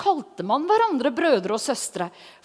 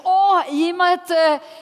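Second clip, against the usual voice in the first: raised, longing voice of a hungry student; eager wish; 3 semitones higher than usual. Retold or imitated. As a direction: plead for time with the Bible, lightly acted. Retelling her eager longing as single.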